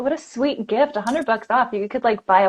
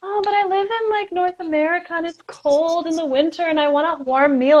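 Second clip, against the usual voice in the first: mock whiny excuse; 6 semitones higher than usual. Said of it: "they're like".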